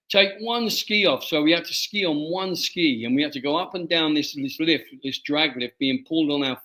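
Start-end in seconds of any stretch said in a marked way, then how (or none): 0.1-1.2 put-on higher instruction in a light Scottish accent. Ski trainer Jimmy telling the lads, light Scottish accent. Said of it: "he said in his Scottish accent".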